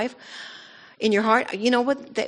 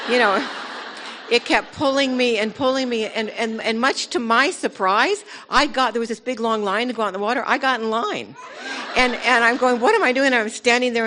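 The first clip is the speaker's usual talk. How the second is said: laughing while telling; 5 semitones higher, 4 dB louder than usual. Real, not acted. Excited testimony, laughing at herself.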